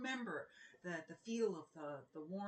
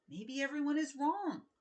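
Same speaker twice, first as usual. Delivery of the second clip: a hint of a higher, louder girl's voice; lightly voiced princess; 6 semitones higher, 7 dB louder than usual. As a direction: plead it as a bright young princess. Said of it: "said Princess Prue".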